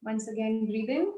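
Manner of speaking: soft, unhurried guiding voice; guided breathing instruction. Acted. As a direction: lead them gently through each breath. Guides yoga breathing exercise.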